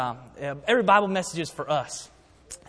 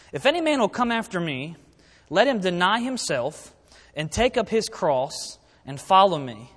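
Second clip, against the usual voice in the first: slow, measured Bible reading from the pulpit; scripture reading; 3 dB louder than usual. Real, not acted. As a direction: read the verse out slowly, phrase by phrase. Reads the Bible verse aloud.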